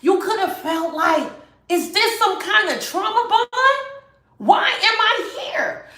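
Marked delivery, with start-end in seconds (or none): 1.7-5.9 laughing disbelief. Retold or imitated. Voicing the viewer's confused questions.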